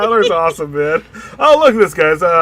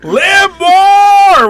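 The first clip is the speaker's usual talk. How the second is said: yelled high and loud, like charging into battle; battle cry shout; 11 dB louder than usual. Acted. Joking with the co-host, roars the war cry out loud. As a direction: bellow it as a mock war cry.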